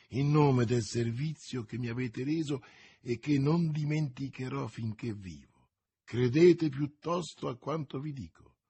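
earnest plea. Acted. Young woman begging D'Artagnan not to help her, earnest and insistent. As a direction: press him urgently to stay out of it.

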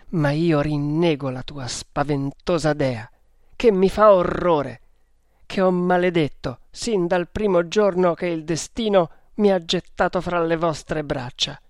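impassioned outburst of horror; bitter defiance. Acted. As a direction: renounce them with bitter loathing. Ada curses the goddess. (sdegno appassionato)

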